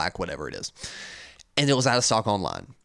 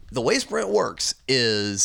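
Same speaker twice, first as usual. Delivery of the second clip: voice gone; slower than usual. Real, not acted. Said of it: "sorry, my voice is gone".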